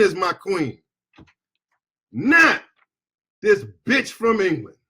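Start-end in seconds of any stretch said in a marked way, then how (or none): 2.1-4.8 angry shout. Real, not acted. Angry rant against the queen.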